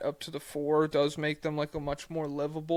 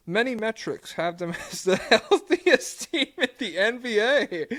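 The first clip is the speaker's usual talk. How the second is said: mock fan voice; 5 semitones higher, 6 dB louder than usual. Reading fan question mockingly.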